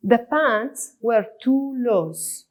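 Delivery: words spaced out slowly; teacher reading an example line slowly. Shown as a demonstration. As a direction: read it slowly, as dictation for the class. Reading example sentence for learners.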